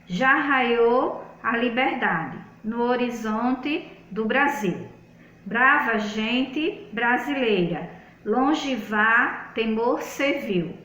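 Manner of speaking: slow, measured reading of anthem verses; reading aloud. Real, not acted. Teacher reading the independence anthem to pupils, slow read-aloud. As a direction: read the verse slowly, phrase by phrase. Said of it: "eu vou ler aqui pra vocês".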